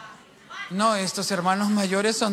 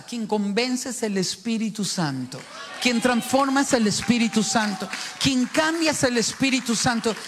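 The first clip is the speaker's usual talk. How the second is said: preaching emphasis. Acted. Preacher driving home the point.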